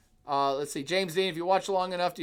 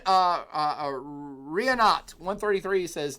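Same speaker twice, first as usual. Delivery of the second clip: ordinary talk, nothing marked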